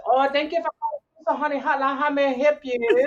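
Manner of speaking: high, rapid mock Asian accent; hammed-up Asian accent on a prank call. Prank hotline operator greeting a caller, mock Asian accent. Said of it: "it is an Asian accent".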